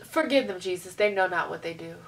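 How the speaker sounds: low, hushed plea to Jesus; mock prayer. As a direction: pray under your breath, softly and low. Acts out muttered prayer in response.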